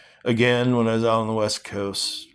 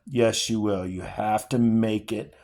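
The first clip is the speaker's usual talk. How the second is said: steady, earnest reading of a novel; dramatic novel reading; story reading. Acted. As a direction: read the father and son scene aloud with feeling. Reading The Road aloud.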